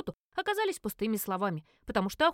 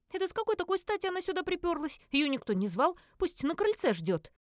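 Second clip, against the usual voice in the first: grumbling; 7 semitones higher than usual. A narrator's reading. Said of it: "ворча и негодуя".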